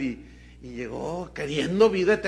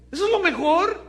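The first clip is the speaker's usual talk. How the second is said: higher, louder, indignant repeat of lo mejor; louder rhetorical challenge; 11 semitones higher, 6 dB louder than usual. Real, not acted. Preacher challenging the congregation, loud and indignant. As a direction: push "lo mejor" up high and hard, challenging.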